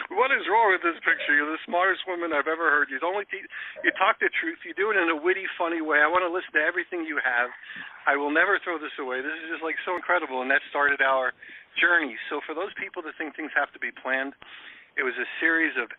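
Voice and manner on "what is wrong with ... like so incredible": excited gushing. Retold or imitated. Gushing at Kim on the phone.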